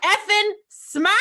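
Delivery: slow, high, loud Boston "smaht", no R; Boston accent. Real, not acted. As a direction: drop the R like a Boston local. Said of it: "There we go".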